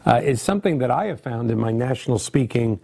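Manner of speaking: worn, tired voice losing strength; voice giving out. Real, not acted. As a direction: speak through a fading, worn-out voice. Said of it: "I'm still losing my voice".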